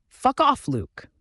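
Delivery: furious yell at Luke; angry yell. A narrator's reading. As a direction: yell it right at him. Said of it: "I yelled at him angrily".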